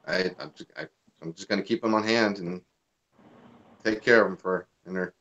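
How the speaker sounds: choked up, voice going quiet; fighting back tears while talking; teary-eyed. Real, not acted. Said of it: "I really literally got teary-eyed".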